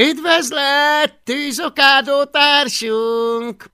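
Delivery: high, loud, slow dragon greeting; hissing dragon. A narrator's reading. Hunting dragon greets the newcomer, hissing. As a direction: draw the greeting out like a sinister dragon. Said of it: "sziszegte Gőte Bűz".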